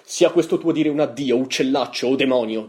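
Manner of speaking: loud, high theatrical outburst; declaimed, forceful cry; dramatic shout. A narrator's reading. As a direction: leap up and shout the bird away. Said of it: "gridai alzandomi all'impiedi".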